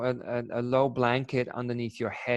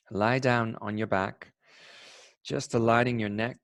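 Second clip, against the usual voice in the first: guided meditation. Acted. Begins leading the Yoga Nidra.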